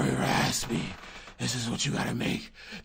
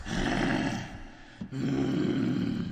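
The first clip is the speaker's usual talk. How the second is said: reverb voice. Shown as a demonstration. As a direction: sound like you're in a hall. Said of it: "that's reverb".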